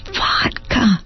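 name it as you sniff it; surprised discovery. Acted. She sniffs Gladys's glass and names it with mild surprise.

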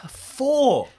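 high, laughing groan at the roll; laughing dismay. Real, not acted. Player laughing at rolling another four. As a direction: laugh at your own rotten luck.

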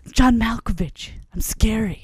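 slow, measured actor imitation; John Malkovich. Batman trying out scary voices, slow actor imitation. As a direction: draw the words out as a mock menace. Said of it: "He does John Malkovich at one point".

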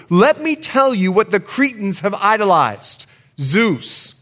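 rising preacher's cadence, fuller voice; building sermon delivery; preaching. Acted. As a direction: lift the congregation into scripture. Preaching builds after quiet opening.

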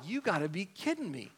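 quietly acted exasperation; incredulous reaction. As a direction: say it under the voice, appalled. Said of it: "you're like".

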